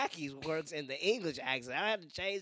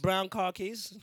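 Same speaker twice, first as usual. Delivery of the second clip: higher comic British "brown car keys"; mock British accent; 4 semitones higher, 4 dB louder, much slower than usual. Chap describing his new pants, mock British accent. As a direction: finish the bit as a hammed-up Brit. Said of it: "British people might say car keys".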